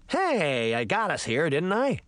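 mildly indignant protest, lifting at the end; put-out, defensive grumble; complaining. Acted. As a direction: complain with a questioning lift. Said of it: "he complained".

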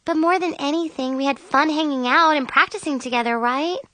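high, coaxing reassurance; cheerful consoling. A narrator's reading. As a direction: coax a friend into feeling better. Chloe consoles her friend, hugging her.

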